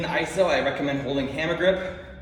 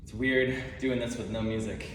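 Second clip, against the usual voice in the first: heavy breathing; 4 semitones lower, 4 dB quieter than usual. Real, not acted. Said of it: "Pardon the breathing".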